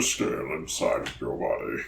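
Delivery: soft unvoiced whisper. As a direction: breathe the words without voice. Repeating a line in turn.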